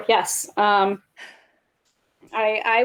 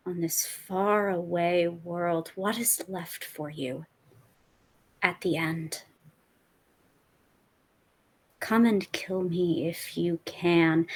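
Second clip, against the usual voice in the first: low, slow, menacing recorded threat; taunting villain voice; menacing villain message; 4 semitones lower, 4 dB quieter, slower than usual. Acted. In-character villain message to Sonny.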